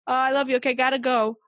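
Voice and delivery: hurried goodbye. Retold or imitated. Mom cutting short a hug with kids, hurried. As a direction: toss off affection on the way out, lightly acted. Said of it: "like a quick".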